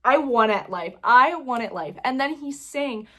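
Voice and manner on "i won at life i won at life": triumphant. Retold or imitated. Retells feeling triumphant after compliment.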